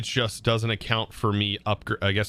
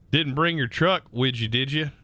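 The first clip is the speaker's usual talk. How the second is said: Southern accent; 3 semitones higher than usual. Shown as a demonstration. Streamer demoing a Southern phrase for chat, light Southern accent. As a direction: toss off a Southern tag question. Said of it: "very Southern thing to say".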